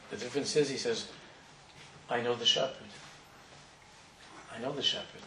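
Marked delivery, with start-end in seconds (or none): 2.1-5.2 soft, hushed and sincere; gentle, quiet conviction. Acted. Old Jew explains the difference to the young winner, gentle quiet conviction. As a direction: say it quietly, letting it sink in.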